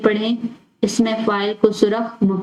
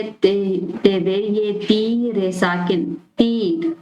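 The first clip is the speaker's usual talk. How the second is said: slow spelling out; much slower than usual. Shown as a demonstration. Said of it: "next word है".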